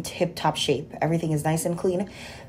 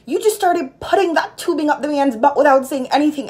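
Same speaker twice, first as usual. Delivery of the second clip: mock Haitian accent, pitched much higher and louder; a deliberately bad Haitian accent, scolding the old nurse; 7 semitones higher, 3 dB louder than usual. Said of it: "this is gonna be my worst Haitian accent".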